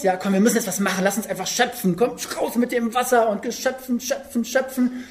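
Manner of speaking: lightly acted urgent rallying; frantic activism. Petrus urging the disciples to bail water, mildly frantic. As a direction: urge the crew on, rising in pitch. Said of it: "so ein bisschen in seinem Aktionismus".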